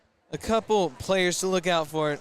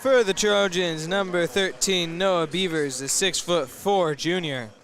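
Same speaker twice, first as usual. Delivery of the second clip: excited announcer; 2 semitones higher, 4 dB louder than usual. Real, not acted. Hyping home team player intro.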